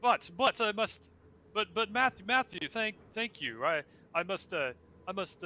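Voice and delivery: high, grand, theatrical ghostly host; flaming skull voice. Acted. Skull thanks, embarrassed, rambling.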